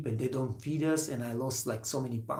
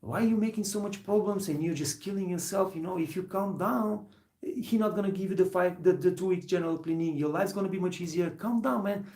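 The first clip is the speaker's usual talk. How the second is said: higher, lightly voiced older coworker; a hint of a patient mentor, pitched up; older coworker advice; 5 semitones higher than usual. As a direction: play the calm older coworker talking him down. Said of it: "And he tells me".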